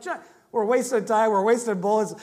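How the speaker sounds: imitating an exasperated dad; retold burst of frustration, a bit forceful; frustrated dad. Dad complaining to son about wasted ammo, frustrated. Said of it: "seen my dad get so frustrated".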